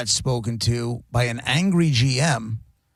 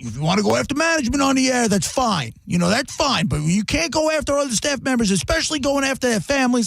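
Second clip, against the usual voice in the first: mock scream; 8 semitones higher than usual. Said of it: "he's screaming at me".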